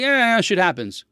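drawn-out, dismissive verbal shrug; mock indifference. Dad mimicking a kid who shrugs off losing, mock indifference. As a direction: imitate someone slowly brushing it off.

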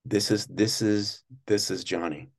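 lightly voiced soft, demure host; a hint of a mic-close murmur; soft-spoken Johnny. Guest imitating how Johnny talked, softly. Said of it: "he would talk like this".

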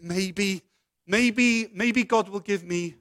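hope against hope, pitch lifting; tentative hope. Acted. Hopeful student walking up to God.

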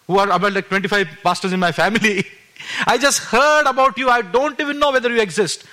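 retold desperate prayer. Desperate prayer retold at full pitch.

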